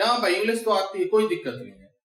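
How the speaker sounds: low, casual, no-problem tone; breezy and self-assured; confident speaker. Pretend. Lightly voiced confident learner impressing the listener. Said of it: "full impression डालना है कि".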